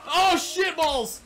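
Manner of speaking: high, loud, drawn-out jump scare; real fright, loud and slow; startled yelp. Real, not acted. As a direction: yelp it as something leaps out. Startled by an ostrich.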